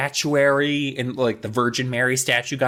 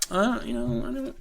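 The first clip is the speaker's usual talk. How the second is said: high hesitant voice; 12 semitones higher, 6 dB quieter than usual. Retold or imitated. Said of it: "Amy's just like".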